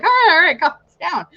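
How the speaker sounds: high-pitched mock placating manager; retold placating. Manager trying to settle a worker, mock placating.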